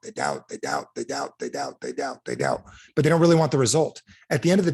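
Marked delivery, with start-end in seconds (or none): 0.0-2.6 mock doubting mutter. Mocking chant of doubters.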